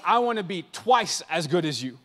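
chuckling through "but I wanna be twice as good as you"; laughing impression. Steph Curry boasting to Michael Jordan, laughing. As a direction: say it with a laugh, half teasing. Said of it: "Michael Jordan and be like".

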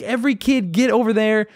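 high, urgent mock order; retold screaming. Ordering kids away from the fight, retold screaming. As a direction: imitate calling kids off a fight. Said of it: "I'm screaming".

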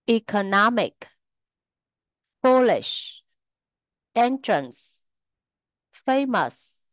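careful word list, each word peaking just before its suffix; stress before the suffix. Shown as a demonstration. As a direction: stress the syllable just before each ending, as in ecoNOMic, FOOLish, muSIcian. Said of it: "trọng âm nhấn vào âm tiết ngay trước nó".

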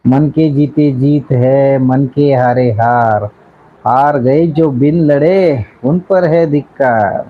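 slow, measured declaiming; deliberate dramatic verse with stretched endings; verse recitation. Acted. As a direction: recite it like a solemn couplet, word by word.

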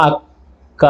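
అక్క drawn out slowly and softly. Shown as a demonstration. Teacher showing pupils how అక్క is said, slowly. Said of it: "కొంచెం మెల్లగా".

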